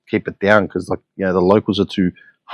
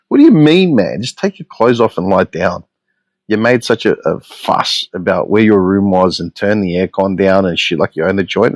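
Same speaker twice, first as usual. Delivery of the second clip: exasperated outburst. Retold or imitated. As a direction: blow up at them in disbelief. Retorting to the rude couple.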